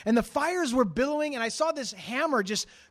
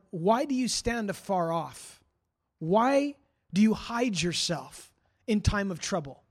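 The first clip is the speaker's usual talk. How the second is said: slow, deliberate questioning of God; slow lament to God; 3 semitones lower, slower than usual. Retold or imitated. Preacher reads David's psalm to the Lord, slow lament. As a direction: draw out each question with pauses. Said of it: "He said to the Lord".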